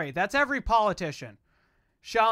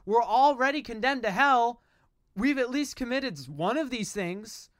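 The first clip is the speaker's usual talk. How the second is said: preacher voice; 2 semitones higher than usual. Real, not acted. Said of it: "my yelling voice, my preacher voice".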